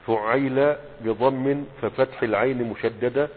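فعيل spelled out slowly, syllable by syllable, fu-ʕay-yil; slow careful pronunciation. Shown as a demonstration. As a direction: dictate فعيل with stressed doubled y. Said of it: "انتبهوا للنطق يا شباب".

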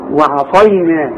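slow وعصينا, thin start then dark ص; light ayn, heavy saad. Shown as a demonstration. Teacher assembling the word, slow careful وعصينا. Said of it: "الاول هنقول وعا وعص".

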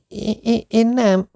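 flustered stammer. Acted. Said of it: "kezdte volna zavarában".

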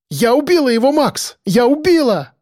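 high, triumphant cry; joyful. A narrator's reading. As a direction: shout it out in elated triumph. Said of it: "в голосе её впервые за всё это время проявилась радость". (ликующе, с радостью)

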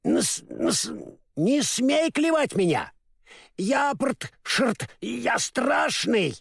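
halting, garbled new speaker; stammering scarecrow learning to talk; stumbling speech. Retold or imitated. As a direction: trip over the consonants. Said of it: "выходило не очень складно".

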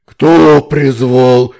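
slow, very loud demon voice; thundering slow monster roar; booming demon roar. A narrator's reading. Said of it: "раздался грохочущий рёв".

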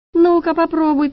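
high, loud defiant dare; defiant taunt. Acted. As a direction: hands on hips, dare him. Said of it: "подбоченилась Шура". (вызывающе, выше и громче)

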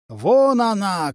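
high-pitched lookout's shout, moderately loud; calling out. A narrator's reading. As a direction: call it out high and slow, stretching the words. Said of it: "крикнул Ленард".

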